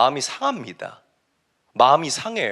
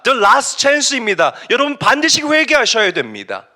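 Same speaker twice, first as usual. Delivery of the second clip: urgent, raised warning to a crowd; Jonah preaching; 6 semitones higher, 5 dB louder than usual. Acted. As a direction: call them to repent, high and loud. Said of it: "니누에로 가서 복음을 증거합니다". (다급하게 외치는 요나의 설교)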